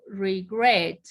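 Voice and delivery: "regret" with the weight on GRET, not on re; stress on the last syllable. Shown as a demonstration. Teacher showing students where "regret" takes its stress, stress on GRET. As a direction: lean into the end of "regret". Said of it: "porque el acento está al final".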